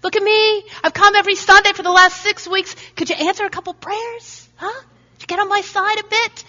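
high, demanding, entitled whine; wrong attitude. Pretend. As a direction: nag God like a spoiled kid. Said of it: "the wrong attitude".

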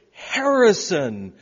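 calling a name out loud, drawn out slowly; loud yell. Retold or imitated. Stranger searching for his son yells the name out loud. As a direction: bellow the name across the restroom. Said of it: "yelling at the top of their lungs".

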